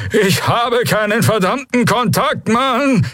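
high, slow alien outcry; outraged Draxyl. Acted. Prisoner denying any contact man, outraged. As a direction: protest hotly in a strained high voice.

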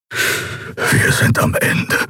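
slow, voiceless whisper; drawn-out, spent whisper; despairing whisper. A narrator's reading. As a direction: whisper it in utter defeat. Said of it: "flüsterte Kero".

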